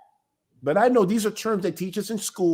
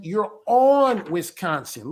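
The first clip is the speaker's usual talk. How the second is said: slow, with on leaned on hard; teaching kids to say on Wisconsin, stressing on; slower than usual. Shown as a demonstration. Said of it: "We teach them".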